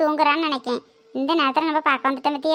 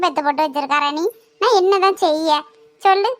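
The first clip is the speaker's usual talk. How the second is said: bitter scolding. Acted. Mother-in-law ranting about daughter-in-law.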